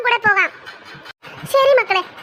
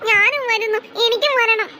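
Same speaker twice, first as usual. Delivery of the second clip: put-on crying child; slower than usual. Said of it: "ഇജ്ജെന്തിനാ ഇവിടെ കരയണത്?".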